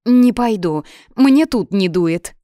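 loud, cheeky comeback; bratty, emphatic defiance; defiant refusal. Acted. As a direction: refuse him saucily, stretching the last words. Girl defiantly refuses his order.

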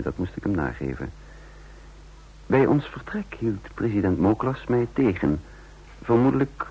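measured, reflective storytelling voice; calm first-person narrator; story narration. A narrator's reading. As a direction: tell it looking back, unhurried. First-person narrator recounting events.

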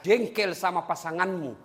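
ordinary delivery

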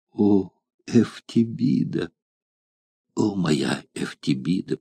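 soft, slow, tender voice. Acted. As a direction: say her name with loving tenderness. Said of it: "произнёс он нежным голосом". (нежно, тихо и медленно)

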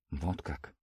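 very soft, low, pensive; drawn out. A narrator's reading. Father taking in the news, softly drawn out. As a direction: let it trail out slowly and softly. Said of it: "протянул мужчина и со вздохом".

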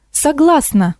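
high, eager cry of agreement; excited exclamation. A narrator's reading. Old teacher eagerly accepting the witch offer, excited cry. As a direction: blurt it out with delight. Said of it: "воскликнула старая учительница".

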